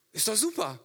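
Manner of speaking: whispered, knowingly smug; ironic whisper. Acted. Father whispering smugly about the clever packing plan. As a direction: whisper it like a secret joke.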